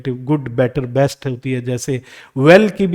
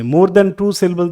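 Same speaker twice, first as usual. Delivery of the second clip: slow repeat; 3 semitones higher, much slower than usual. Shown as a demonstration. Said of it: "more than two syllables होते हैं".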